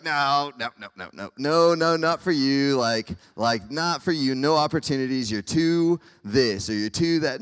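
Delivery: emphatic, rapid-fire mock rejection; mock refusal. Preacher playing Jesus refusing a request, mock dismissive. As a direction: turn someone down with hammed-up insistence.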